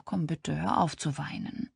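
soft, soothing plea; tröstend. Acted. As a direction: gently coax a friend out of tears. Freundin küsst und tröstet Weinende. (leise und tröstend)

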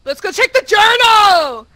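high, very loud cheer; loud, thrilled whoop of words; excited shout. Real, not acted. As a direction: belt it out like a rallying cry. Excited call to check journal.

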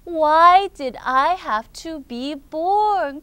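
slow, loud, plaintive storybook question; sad lament. Acted. Rookie asks friend why he was born, mildly wailing lament. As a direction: wail it mildly, word by word. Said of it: "굉장히 슬픈 질문을 했어요".

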